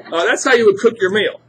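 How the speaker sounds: real laughter over the words; laughing. Real, not acted. Teacher repeats the line to the class, laughing. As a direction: still laughing after the ouch. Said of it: "So that's how you would cook your meal".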